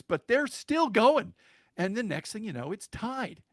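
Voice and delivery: pitched high, rising with each play; excited storytelling. Real, not acted. Father recounts the team tying the game, excitedly. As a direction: relive the comeback play by play.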